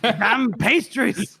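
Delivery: hammed-up cursing; mock outcry. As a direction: play up the indignation, very slowly. Laughing repeat of the joke line.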